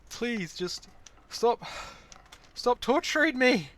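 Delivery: high loud slow pleading; being tickled. Real, not acted. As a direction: beg it to stop, strained. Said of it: "it's still, like, tickling me".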